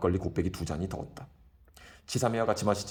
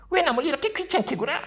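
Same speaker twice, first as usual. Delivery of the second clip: very high falsetto lady, rising; lady's voice; 5 dB louder than usual. Retold or imitated. Kim mimicking the schoolgirl who rebuffed him. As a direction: mimic a prim young lady. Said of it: "그 소리야말로 꾀꼬리 소리지".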